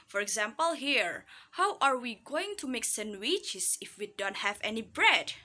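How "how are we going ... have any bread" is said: teacher's demo of rising "bread". Shown as a demonstration. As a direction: pitch leaps up on "bread". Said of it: "read the word bread with rising tone intonation".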